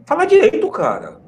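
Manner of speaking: high, mock-outraged demand; mock indignant. Teasing a Paulista friend, mock indignant. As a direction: play at being scandalised by the accent. Mocking friend's accent jokingly.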